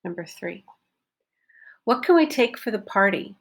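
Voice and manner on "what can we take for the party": can said as a short kn; reduced can in a relaxed question. Shown as a demonstration. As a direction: swallow can, stress party. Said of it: "What did I reduce?".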